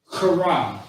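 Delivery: "kara" with the k scraped hard in the throat; forceful throaty K. Shown as a demonstration. Teacher contrasting Hebrew words, "kara" forced and throaty. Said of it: "you're saying it with force".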